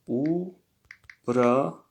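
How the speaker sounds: uprajeniya drawn out slowly in separate syllables. Shown as a demonstration. Teacher to students writing the word, syllable by syllable. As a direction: say uprajeniya slowly, pausing between its parts.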